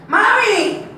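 high, loud call; high child's shout on arriving home; boy calling his mother. Acted. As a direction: holler for mom from the door.

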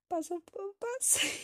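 slow, very high-pitched exclamation; high squeal. Real, not acted. Player reacts to putting on shampoo, high squeal. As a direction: let the voice shoot up into a squeak. Squeals over bath step, then laughs.

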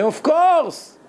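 high, emphatic of course; a mock-confident yes, pitched high. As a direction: toss it off as obvious. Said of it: "He'd say".

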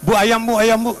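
hawker calling. Retold or imitated. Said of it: "orang Madura lagi jualan ayam".

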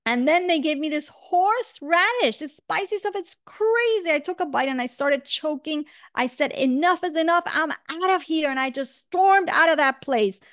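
mildly aggrieved retelling of a bad night; indignant complaint. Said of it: "he got so angry and he yelled".

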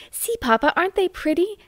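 high, sweetly cooing; sentimental. A narrator's reading. Flo sentimentally asks Papa about the lambs. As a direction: coo it at Papa, all sentiment. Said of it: "added Flo sentimentally".

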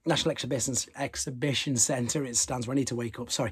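ordinary delivery

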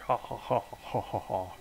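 acted "ha ha ha" of a gloating villain; mock laugh. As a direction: imitate a villain's laugh in separate, spoken has. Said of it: "He's laughing".

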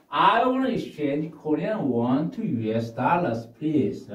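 very slow, clear; slow model request. Shown as a demonstration. Teacher modelling the exchange request slowly. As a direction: ask it slowly, word by word. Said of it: "teacher models request".

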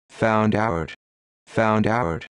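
a lightly cawing bird voice, mildly put on; cawed. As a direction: croak the words like a caught jackdaw. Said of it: "cawed the jackdaw".

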